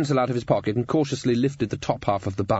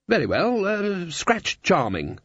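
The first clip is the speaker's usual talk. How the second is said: even; 8 semitones higher, slower than usual. A narrator's reading. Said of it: "said Ridcully evenly".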